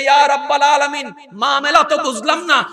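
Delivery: high, loud shouted plea; the moon asking God. Acted. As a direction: cry out the moon's confusion to God. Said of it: "এবার চন্দ্র বলে".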